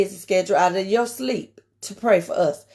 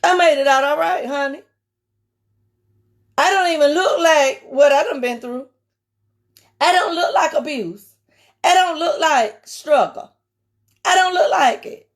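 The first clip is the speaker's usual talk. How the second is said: proud exclamation; 4 semitones higher than usual. Retold or imitated. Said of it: "because I be like".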